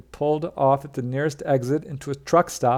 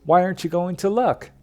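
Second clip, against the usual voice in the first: retold anger; 5 semitones higher than usual. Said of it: "angry as well".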